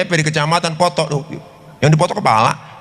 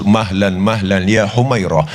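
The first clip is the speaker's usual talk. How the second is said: lower, slow, soothing words; calming; 5 semitones lower, slower than usual. Acted. The Prophet calms his angry wife, low and slow. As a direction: settle her down gently.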